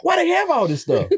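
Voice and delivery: high, laughing question; laughing amazement. Retold or imitated. Touring the school, laughing in amazement. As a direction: marvel at it through laughter.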